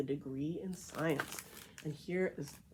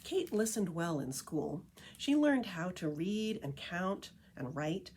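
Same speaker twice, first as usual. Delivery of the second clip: lively picture-book read-aloud voice; story narration; 2 semitones higher than usual. A narrator's reading. Reading The Tree Lady to listeners, storytelling narration. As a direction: read it like a storyteller to a group of kids.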